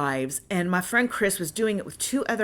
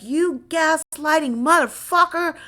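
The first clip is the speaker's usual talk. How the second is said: higher, slow, spitting the insult; retold furious insult; 8 semitones higher than usual. Cursing the gaslighting driver, retold fury. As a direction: let the venom drag out. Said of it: "I unleashed on him".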